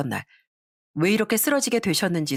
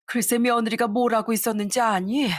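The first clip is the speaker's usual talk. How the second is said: higher, rising 뭘 하고 있었는지, lightly voiced mother; mother's question; 4 semitones higher than usual. Mother baiting her son with the question, rising. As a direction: tease the question up on 뭘.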